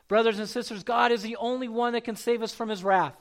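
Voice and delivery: firm, emphatic preaching to the congregation. Acted. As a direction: drive the point home to the church.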